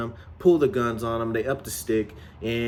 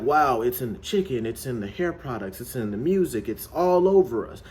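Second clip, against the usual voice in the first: alarmed realisation. Retold or imitated. Characters discovering they are controlled, mounting alarm. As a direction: pile up the list, then burst out.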